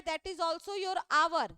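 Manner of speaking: very slow, deliberate English line; slow teaching model. Shown as a demonstration. Teacher slowly modeling hour for pupils. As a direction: spell the phrase out slowly. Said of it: "इसका भी जो आपका उच्चारण आ रहा है".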